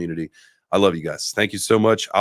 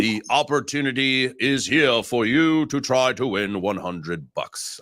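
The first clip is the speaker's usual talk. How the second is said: announcer voice; slower than usual. Pretend. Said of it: "I don't wanna keep that up".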